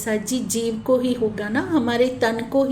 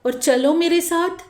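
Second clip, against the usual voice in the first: pleading call; 2 semitones higher than usual. Acted. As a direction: call out to your beloved, gently acted. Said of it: "धनी जी को पुकार ले". (हल्की ऊँची आवाज़ में विनती भरी पुकार)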